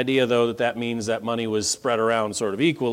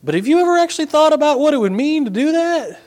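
questioning listener; 4 semitones higher, 3 dB louder than usual. Retold or imitated. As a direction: voice leaps much higher and louder on the challenge. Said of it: "Maybe you're saying".

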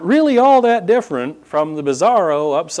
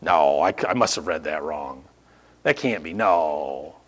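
lower, softer baffled muttering; stunned disbelief; 10 semitones lower, 6 dB quieter than usual. Retold or imitated. Preacher acting out reading the news, lower soft disbelief. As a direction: mumble like you can't believe what you read. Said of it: "I regularly find myself going".

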